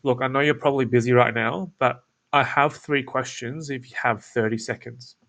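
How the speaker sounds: as if you don't care much; casual laid back. Shown as a demonstration. Cold caller to busy lead, casual falling tone. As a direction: pitch falling with each phrase. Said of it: "I'll just reenact it now".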